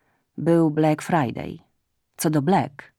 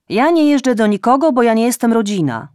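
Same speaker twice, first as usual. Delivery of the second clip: loud, high offended mother; indignant refusal; 5 semitones higher, 7 dB louder than usual. A narrator's reading. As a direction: snap it back, offended. (matka głośno i urażona odmawia córce)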